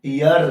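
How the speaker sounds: ईयर as EE gliding into UR; teacher sounding out ईयर as EE-ur; diphthong demonstration. Shown as a demonstration. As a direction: model ईयर, EE sliding into a schwa and R. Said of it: "तो इससे क्या बनता है?".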